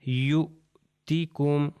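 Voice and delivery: یؤتیکم drawn out slowly, waw silent; teacher slowly models یؤتیکم; slow demo reading. Shown as a demonstration. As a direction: spell out یؤتیکم carefully and slowly. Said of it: "آپ یہ دیکھیے".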